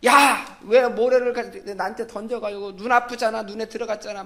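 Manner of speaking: put-on child's shout. Child yells at playmate who threw sand, mock shout. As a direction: yell like a kid with sand in his eye. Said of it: "소리를 질렀어요".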